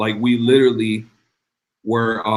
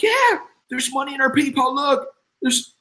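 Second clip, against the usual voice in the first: excited screaming; 12 semitones higher than usual. Retold or imitated. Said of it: "Jennifer starts screaming".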